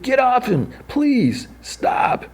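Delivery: very high, strained mock pleading; imitated wail. Chris watching Keith held back, high imitated wail. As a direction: plead in a hammed-up wail without full volume. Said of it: "he wails".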